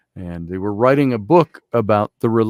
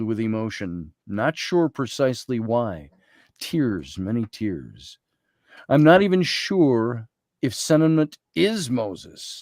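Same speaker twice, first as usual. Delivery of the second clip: journal reading. Real, not acted. Speaker shares a journal entry from the tomb, measured reading.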